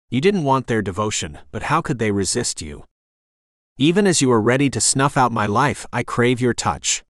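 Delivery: rough, hoarse whisper of defiance. Acted. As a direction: speak hoarsely through a squeezed throat. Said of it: "she said with a hoarse voice".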